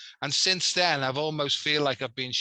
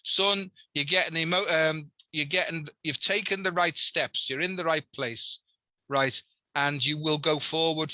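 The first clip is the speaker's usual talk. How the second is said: real emotion welling up as he repeats it; getting emotional. Real, not acted. Man retelling his late nan's message to host, emotional. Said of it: "I'm getting emotional talking about this".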